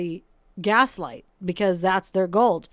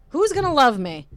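a high, louder mock-despairing question; mock despairing cry; 6 semitones higher, 5 dB louder than usual. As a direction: toss it up like a hammed-up lament. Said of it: "Instead of "You're gonna love me".

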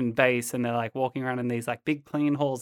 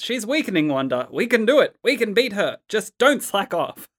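lightly acted higher-pitched hero urging; urging teammate; 7 semitones higher than usual. Host reads Giant Man spurring Wanda on, urgent. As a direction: push the encouragement, lightly acted. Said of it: "Giant Man in his medieval armor says".

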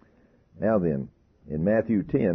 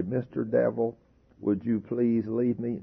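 timid polite request; 4 semitones higher than usual. Shown as a demonstration. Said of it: "You don't walk in and say".

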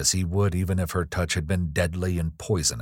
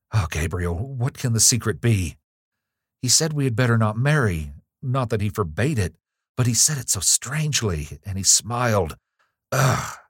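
anxious, higher-pitched worry; mildly frightened; 5 semitones higher, 3 dB louder than usual. Acted. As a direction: voice a girl's unease, ending in a shudder. Frightened girl, acted by narrator.

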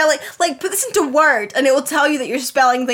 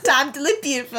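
mocking repeat. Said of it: "he says".

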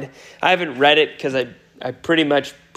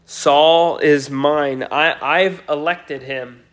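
calm assurance; slower than usual. Retold or imitated. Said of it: "He simply says".

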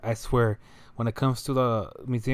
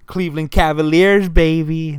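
loud, high sports-fan holler; mock fan shout; 5 semitones higher, 10 dB louder than usual. To a Holocaust survivor from Ohio, a hammed-up fan shout. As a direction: belt it out like a pumped-up fan at a game. Imagined fan yell at speaker.

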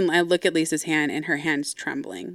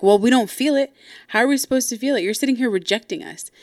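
higher, indignant retold retort; fuse lit; 5 semitones higher, faster than usual. Sister confronting her dad about rejection, mock flare-up. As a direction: imitate a sister flaring up. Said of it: "immediately her fuse was lit".

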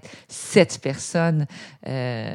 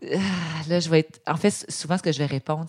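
ordinary talk

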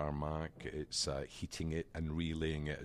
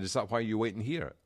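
slightly raised Aussie supervisor; imitated Aussie official, higher pitch; Australian accent; 4 semitones higher, 4 dB louder than usual. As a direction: ask it in a mock Australian voice. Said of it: "Is that your Australian accent?".

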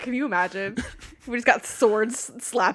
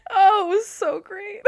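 laughing till crying; 6 semitones higher than usual. Real, not acted. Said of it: "I'm crying".

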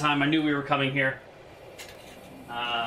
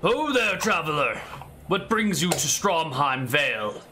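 knight calling out; 3 semitones higher than usual. Acted. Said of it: "he calls out to you".

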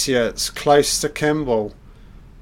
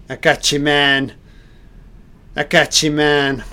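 excited hero's cheer; 3 semitones higher, 6 dB louder than usual. Acted. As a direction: cheer him on like the hero himself. Voicing the hero's relief.

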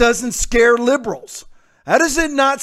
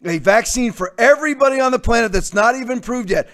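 a mildly raised mock quote of the reporter, quick; hammed-up retelling of her question; quoting nervous reporter; faster than usual. Host mimics reporter questioning Gates, mildly raised and quick. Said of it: "She said".

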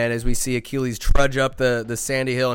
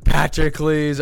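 reveal; 7 dB louder, slower than usual. Pretend. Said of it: "Q N S, it is".

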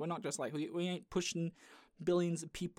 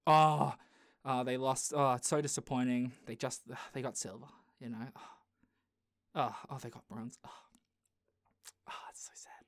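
mock news lament; 4 semitones lower than usual. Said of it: "it's very much".

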